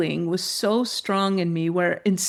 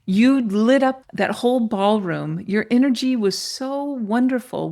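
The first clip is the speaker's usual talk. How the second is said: higher, admiring gush; animated, lifted-pitch compliment; retold glowing praise; 3 semitones higher than usual. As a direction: praise with mounting wonder, quoting the assistant. Assistant's admiring praise, acted out.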